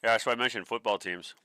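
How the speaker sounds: talking while crunching ice; words around a mouthful of ice. Real, not acted. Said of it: "Sorry, I'm crunching ice in your ear".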